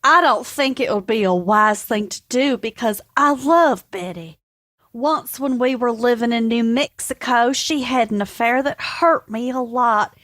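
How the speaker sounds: Texan man. Acted. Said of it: "would you like to read for Alan".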